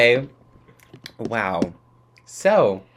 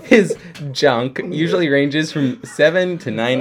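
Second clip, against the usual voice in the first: laughing; 3 semitones higher, 4 dB louder than usual. Real, not acted. Rereading entry through giggles.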